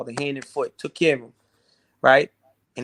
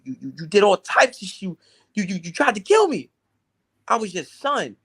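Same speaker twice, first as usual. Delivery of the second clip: angry screaming at mother. Retold or imitated. Son confronting his mother, rising angry shout. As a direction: pour out years of anger at her. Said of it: "I'm screaming to the top of my lungs".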